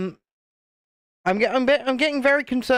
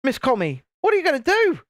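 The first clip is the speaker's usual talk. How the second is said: mock indignant parent; 5 semitones higher, faster than usual. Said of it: "I was thinking".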